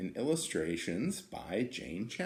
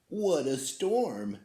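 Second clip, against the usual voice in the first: twittering wren; 3 semitones higher, slower than usual. Acted. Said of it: "twitters wren".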